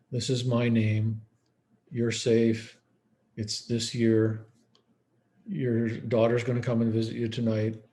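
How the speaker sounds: slow, plain, calm reassurance; simple reorienting. Shown as a demonstration. Staff reorienting a dementia patient, slow calm reassurance. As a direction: spell it out slowly and simply. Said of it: "simple, basic, you know, dementia reorienting skills".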